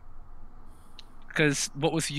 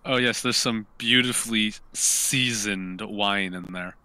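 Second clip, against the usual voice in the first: mock sales pitch; 3 semitones lower, slower than usual. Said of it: "point out to Crow the".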